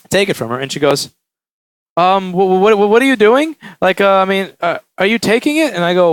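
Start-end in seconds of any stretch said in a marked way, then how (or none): 2.0-5.7 flustered, higher imitation of a customer; frantic. Customer alarmed as repairer takes her phone, stammering and frantic. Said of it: "she's really frantic".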